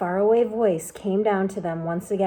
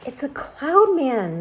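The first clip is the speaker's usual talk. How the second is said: higher, louder alarmed cry; frightened cry; 6 semitones higher, 4 dB louder, slower than usual. A narrator's reading. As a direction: panic at the cloud men. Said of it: "Miss Spider cried".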